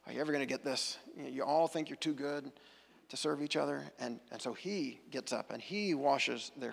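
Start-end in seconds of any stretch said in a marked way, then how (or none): 0.1-3.8 mildly exasperated sigh, then softly chiding; imagine a weary teacher let down by students. Retold or imitated. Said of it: "looks around exasperated".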